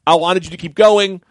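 high-pitched flustered pleading; apologetic protest. Retold or imitated. Explaining to players after ending their scene, pleading. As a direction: plead your innocence, pitched well up. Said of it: "and then I felt bad".

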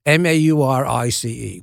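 spelling out in mock-Cockney; letter by letter, rough London star impression; imitated Cockney spelling; Michael Caine. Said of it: "This is a terrible Michael Caine impression".

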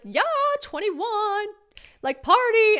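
high, loud, drawn-out party whoop; fake party cheer. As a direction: Bella pretends it's her birthday, loud whoop. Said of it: "And she was like".

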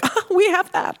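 Southern crowd. Retold or imitated. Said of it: "they're like".

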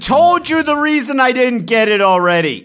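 high, loud, indignant pushback; indignant high protest. Real, not acted. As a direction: defend yourself, voice shooting up. Defensive outburst in puzzle argument.

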